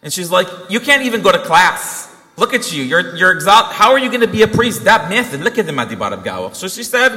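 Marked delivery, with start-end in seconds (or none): 0.7-6.6 exasperated mother's telling-off; scolding mom. Retold or imitated. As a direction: imitate a mom laying into her son. Mom scolds son on couch.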